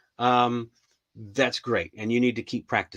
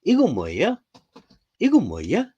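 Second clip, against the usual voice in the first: put-on higher and higher childlike repeats; daughter asking in Korean; 6 semitones higher, 4 dB louder, much faster than usual. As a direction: pester like a little girl, climbing each time. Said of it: "Or she'll say it in Korean".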